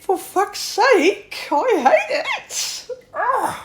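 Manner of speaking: slow, high, laughing exasperation; high, slow laughing disgust; exasperated laugh. Real, not acted. Exasperated rant at psychobabble.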